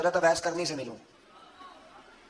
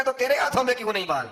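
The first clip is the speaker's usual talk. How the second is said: higher, mildly heated demand from the retold king; a touch of royal anger, pitched up; angry king; 5 semitones higher than usual. Preacher voices the stingy king angrily questioning the courtier. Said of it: "غصے سے کے ساتھ کہنے لگا".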